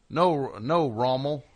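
lightly put-on Southern accent; a hint of mock-genteel Southern accent; tasteful Southern accent. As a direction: imitate a Southern accent, gently. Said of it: "the really tasteful Southern accent".

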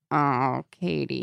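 soft, low pitying sigh. Retold or imitated. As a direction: say it with quiet pity. Sympathetic reaction voice.

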